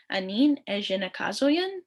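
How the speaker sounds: Ejinekazoyan lifting at the end like a question. Shown as a demonstration. Teacher shows students the question intonation. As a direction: ask Aneen Ejinekazoyan with a rising end. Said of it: "putting the question emphasis on that".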